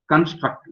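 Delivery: Construct said alone and set apart with a falling end; stressed word. Shown as a demonstration. Lecturer to students, stressing Construct on its own. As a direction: lean on Construct, one clear falling word. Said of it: "Let me stress the word construct".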